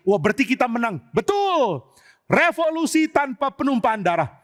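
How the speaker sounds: nada tinggi, bersorak menang; gembira menang. Acted. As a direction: rayakan kemenangan tanpa perang. Pengikut Absalom bersorak menang. (suara riang tinggi pengikut Absalom)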